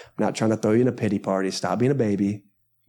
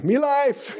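high, badly faked African accent; hammed-up African accent, barely distinct; African accent attempt; 13 semitones higher than usual. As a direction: pitch it up in mock African accent.

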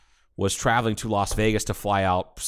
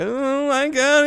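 shrill squeal of disbelief, far higher; excited boss; 4 dB louder, much slower than usual. Retold or imitated. Retelling his boss spotting the rock star, excited squeal. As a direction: squeal it like a starstruck fan.

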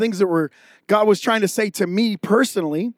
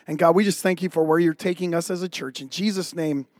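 prayer. Acted. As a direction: pray over the leader gently. Closing prayer over the church.

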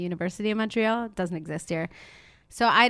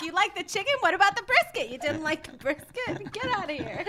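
Jewish mom; 10 semitones higher than usual. Retold or imitated. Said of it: "Nick is a Jewish mom".

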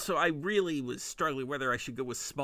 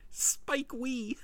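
squeaky giggled pun name; said through a high giggle; giggling; 8 semitones higher than usual. Real, not acted. Giggling at the tiny director joke.

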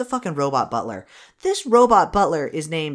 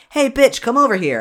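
"Hey, bitch" called out loud and high; hammed-up jock shout; mock Moose line; 9 semitones higher, 6 dB louder than usual. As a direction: yell it like a dumb jock calling someone over. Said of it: "it just sounded like he was just like".

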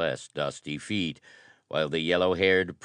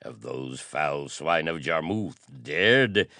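slow thundering fury; 4 dB louder, slower than usual. Acted. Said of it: "he thundered".

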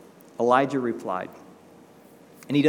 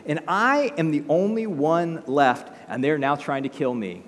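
whiny self-pity, louder complaint; hammed-up self-pitying protest; pity party; 5 semitones higher, 4 dB louder than usual. Elijah complaining to God, mock self-pitying. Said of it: "throwing himself a major pity party".

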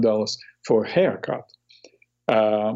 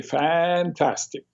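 put-on Italian accent; 5 semitones higher, slower than usual. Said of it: "You always say".

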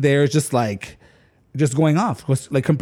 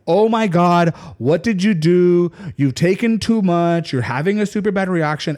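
put-on alarmed boyfriend; 4 semitones higher than usual. David realizing he took too much, higher and alarmed. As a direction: sound the alarm about the overdose. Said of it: "his response is like".

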